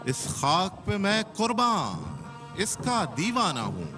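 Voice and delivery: measured verse, long pauses between lines; patriotic poem recitation. Acted. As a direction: recite with swelling pitch that falls away at each line's end. (देशभक्ति कविता का ठहर-ठहर कर पाठ)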